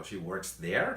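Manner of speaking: "She works there" con subida marcada en "there"; entonación de sorpresa. Shown as a demonstration. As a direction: repite "She works there" incrédulo, "there" hacia arriba. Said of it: "si te está sorprendiendo mucho". ("She works there" como eco sorprendido)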